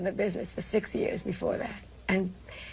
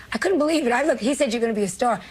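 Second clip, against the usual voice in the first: crying; 4 semitones higher, faster than usual. Real, not acted. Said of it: "See, I'm crying now".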